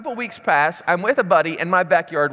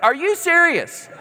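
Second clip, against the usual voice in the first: high, slow, amazed laugh through it; laughing disbelief; 10 semitones higher than usual. Retold or imitated. Buddy in the backyard can't believe his friend, laughing disbelief. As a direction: let the disbelief crack into a laugh.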